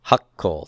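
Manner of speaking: hakol with a held double k; doubled consonant. Shown as a demonstration. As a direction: stop on the k in hakol before releasing it. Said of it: "Say that for me".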